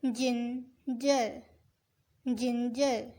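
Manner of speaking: जिंजर drawn out very slowly; slow model word. Shown as a demonstration. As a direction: stretch out जिंजर for the class. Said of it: "अदरक को कहते हैं जिंजर". (जिंजर बहुत धीरे खींचकर बोलना)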